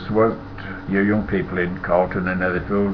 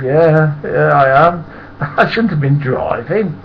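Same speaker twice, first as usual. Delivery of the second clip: laughing admission; 7 semitones higher, 6 dB louder, slower than usual. Retold or imitated. Admitting, laughing.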